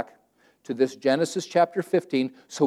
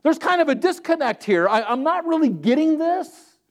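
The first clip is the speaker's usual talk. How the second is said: honest plain prayer; 10 semitones higher than usual. Retold or imitated. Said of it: "If there's something you don't understand".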